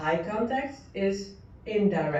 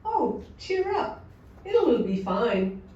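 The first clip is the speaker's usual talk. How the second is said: gentle indirect; 3 semitones higher, slower than usual. Shown as a demonstration. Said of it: "in a high context manner".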